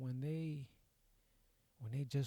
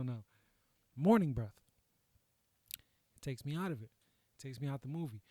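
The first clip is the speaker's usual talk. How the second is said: ordinary delivery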